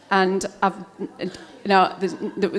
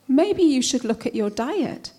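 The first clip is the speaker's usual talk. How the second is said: unsolicited advice; 5 semitones higher than usual. Acted. Adviser's line, then thrown back.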